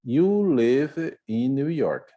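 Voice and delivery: said slowly as a model statement; slow model sentence. Shown as a demonstration. Teacher reading the example slowly to the class. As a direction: read out slowly for students. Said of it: "aqui, ó".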